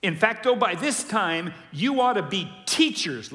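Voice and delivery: emphatic reading. Shown as a demonstration. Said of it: "here's his language".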